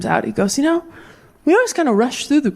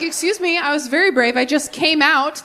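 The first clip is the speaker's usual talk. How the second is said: indignant self; 5 semitones higher than usual. Retold or imitated. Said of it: "you're like".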